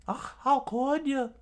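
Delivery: high, loud outraged cry; outraged hero. Acted. Luffy confronting Crocodile, high and outraged. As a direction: fling the accusation up high.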